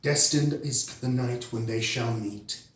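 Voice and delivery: measured poetry reading with pauses between phrases; poem recitation. Acted. Poet sharing own dark rose poem for One Brave Night, measured recitation. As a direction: recite it line by line, letting the line endings fall.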